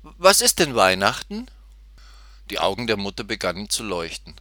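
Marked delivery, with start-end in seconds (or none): 0.0-1.5 put-on high, loud child's question; curious piglet. A narrator's reading. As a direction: ask eagerly as a little piglet. Excited piglet asks mother.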